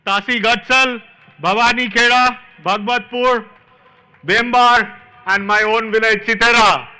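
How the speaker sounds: loud, rising roll call to the crowd. Real, not acted. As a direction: call each village out to the hall. Greeting village crowds from stage.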